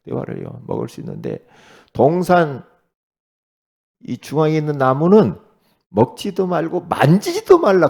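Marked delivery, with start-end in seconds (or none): 1.9-7.9 louder, higher, insistent; Eve's twisted quote. Retold or imitated. Eve repeating God's word to the serpent: loud insistent. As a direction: proclaim the altered rule boldly. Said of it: "그렇게 말했다고 그래요".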